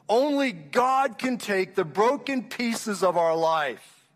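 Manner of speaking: slow preaching emphasis. Real, not acted. Preacher's climax to congregation.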